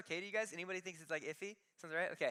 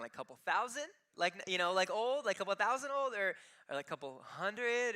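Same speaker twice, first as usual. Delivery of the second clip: high, loud, rising disbelief with hope; incredulous hope; 5 semitones higher, 5 dB louder than usual. Retold or imitated. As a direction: push the hope up into pleading disbelief. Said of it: "And I'm like".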